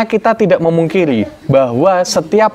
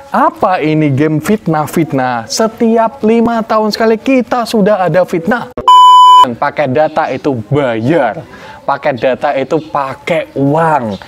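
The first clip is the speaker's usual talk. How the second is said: lightly voiced comic rant; Tretan Muslim imitation. A hint of Tretan Muslim ranting about fitnah. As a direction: mimic a comedian's indignant bit. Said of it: "Bagaimana Tretan Muslim berbicara".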